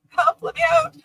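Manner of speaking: high squeak, pleading to be let out; mock cry for help, very high; tiny trapped voice begging; squeaky pleading voice. Voicing a trapped character.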